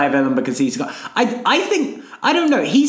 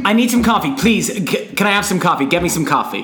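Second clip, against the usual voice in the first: pushier coffee take. Pretend. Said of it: "a different way".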